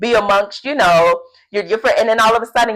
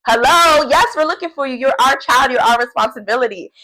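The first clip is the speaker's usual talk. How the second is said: indignant parent; 7 semitones higher, 4 dB louder than usual. Retold or imitated. Parents answer Jesus indignantly.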